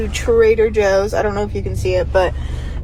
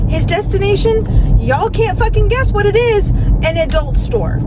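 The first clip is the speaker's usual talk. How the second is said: incredulous reveal; 9 semitones higher than usual. Real, not acted. Building to shocking reveal.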